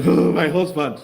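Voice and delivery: slow, mocking wail of "Oh, my husband"; mock crying wife. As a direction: lightly imitate a weeping wife. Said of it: "Uchechi Kanu is now crying".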